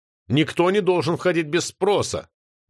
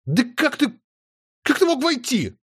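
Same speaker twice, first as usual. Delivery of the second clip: high outraged stammer; sputtering with outrage, pitch climbing; indignant; 11 semitones higher than usual. A narrator's reading. Outraged girl confronts intruder. (возмущённо, срываясь на высокий голос)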